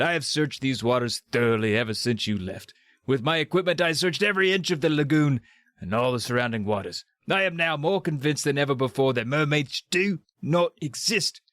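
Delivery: emphatic, put-on Scottish accent; Sean Connery. Doctor D denying mermaids to zoo people, attempted Scottish accent. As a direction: declare it in a loose Scottish film-star accent. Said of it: "in his best Sean Connery accent".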